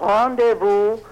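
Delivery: a hint of French in the customer's greeting; French accent. Bank customer in the ad answering Alpha Bank, mock French accent. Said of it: "έτσι, με γαλλική accent".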